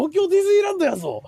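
mock Kansai.

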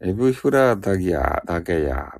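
playful Nagoya "dagaya" imitation; mock Nagoya dialect. Streamer listing Nagoya endings for viewers, mock Nagoya dialect. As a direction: lightly caricature Nagoya speech, lifting the first phrase. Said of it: "ダガヤとか言うとかやな".

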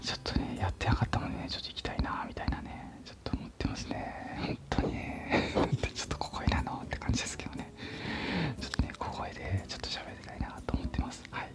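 barely voiced, very soft whisper; hushed small voice. Real, not acted. Host confiding to listeners a wish to go play, whispering.

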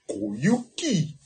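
a drawn-out Koyuki in a put-on voice; lightly imitated drama voice; Koyuki in a character voice. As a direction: say the name like the drama actor would. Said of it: "江口の真似じゃないんだよね".

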